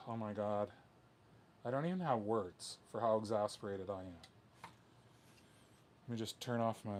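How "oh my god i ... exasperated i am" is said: real exasperation, worn down; exasperated. Real, not acted. Venting about a whole failed process, exasperated. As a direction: sigh through your frustration. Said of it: "completely exasperated".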